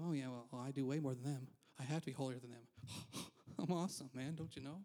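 understated mock bragging; sarcastic. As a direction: play a self-satisfied boaster, tongue in cheek. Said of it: "That was sarcasm".

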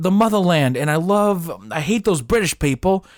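Russian boy with a put-on British accent. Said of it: "Well, he's British".

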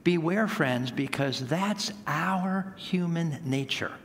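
slow, gentle pastoral warning; loving warning. Real, not acted. Pastor to congregation, a loving slow warning. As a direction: lean in and warn them lovingly. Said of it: "very lovingly to say".

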